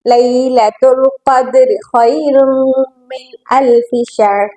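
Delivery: slow, drawn-out tajweed recitation; Quran recitation. Shown as a demonstration. Teacher reciting a verse for students, measured tajweed recitation. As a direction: recite slowly, holding nasals and long vowels.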